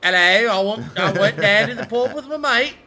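high, loud exaggerated English accent; mock English accent. Shown as a demonstration. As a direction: ham up the English pub talk. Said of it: "they say mate in England".

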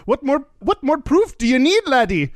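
high, lilting mock Irish; Irish accent. Leprechaun proving he is real to a drunk man, high Irish accent. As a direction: argue it in a hammy leprechaun brogue. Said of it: "an Irish voice".

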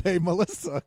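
mock a yell for someone; retold yell. Retelling how he summoned her, mock yelling. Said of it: "And he yelled".

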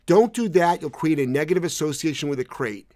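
mimicking a preachy critic; mock critic. Mocking dog people who lecture about crates. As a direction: parrot the naysayers with mild scorn. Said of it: "you can hear people say".

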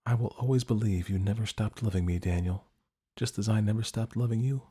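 soft, tender words to a lost love; tender farewell. Acted. Dorothy speaking softly to Daniel at his grave, tender. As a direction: say it gently, just above a breath.

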